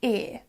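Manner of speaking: "ear" as one long vowel; no glide at the end of "ear"; speaker's own accent. Shown as a demonstration. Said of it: "typically in my accent, it would be".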